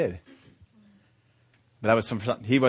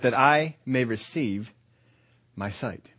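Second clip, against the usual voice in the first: slow stress on "I" and "receive"; deliberate phrasing; slower than usual. Shown as a demonstration. Preacher contrasting the wording with being healed, "I may receive" stressed. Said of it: "I love the way he phrases this".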